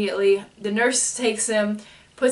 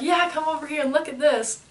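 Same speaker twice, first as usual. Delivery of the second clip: higher-pitched mock-eager doctor; lightly excited, lifted voice; having a blast; 6 semitones higher than usual. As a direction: imitate someone eagerly calling a friend over to see. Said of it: "they're just having a blast".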